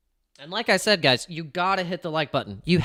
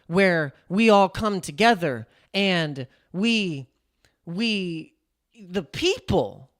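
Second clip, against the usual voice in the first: rambling, drawn-out politician voice, far from his own; Harris impression; 2 semitones higher than usual. Mocking Harris to his stream, rambling politician drawl. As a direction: ramble on like Harris never landing the plane. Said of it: "I sound like Harris right now".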